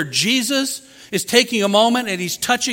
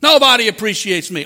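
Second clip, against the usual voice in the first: self-pity; 4 semitones lower, 4 dB louder than usual. Retold or imitated. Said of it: "Just solidify it in your mind".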